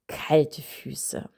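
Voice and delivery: put-on whispered child's reply; child whispering back to the parent, a small voice; child's answer. Child answers in role-play.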